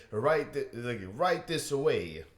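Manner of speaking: bad Italian accent, slow; a clumsy Italian accent on Write this away. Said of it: "my Italian accent is terrible".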